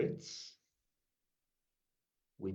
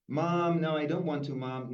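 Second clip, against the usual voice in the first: whiny daughter; 4 semitones higher, 4 dB louder than usual. Acted. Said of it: "she's posing for this portrait against her will".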